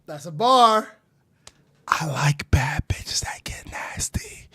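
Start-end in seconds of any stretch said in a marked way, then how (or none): 1.9-4.5 whispered lyric. Retold or imitated. Reacting, mimicking song lyric.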